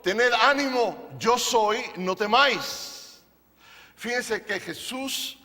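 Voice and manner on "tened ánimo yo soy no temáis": reassuring Jesus. Retold or imitated. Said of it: "les habló diciendo".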